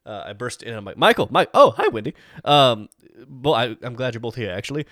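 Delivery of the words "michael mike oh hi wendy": excited greeting. Acted. Player character bursts in greeting.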